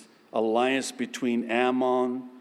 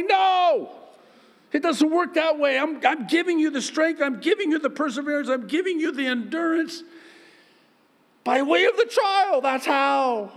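much higher, loud firm God voice, quick in parts; God's firm voice; 13 semitones higher, 3 dB louder than usual. Acted. God refusing the believer's shortcut, high and firm. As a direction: firmly refuse as God, then explain.

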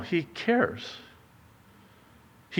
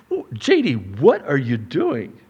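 questioning God voice; 2 semitones lower than usual. Acted.

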